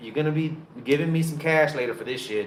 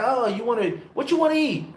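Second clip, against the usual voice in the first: vendor voice; 8 semitones higher than usual. Retold or imitated. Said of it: "They're like".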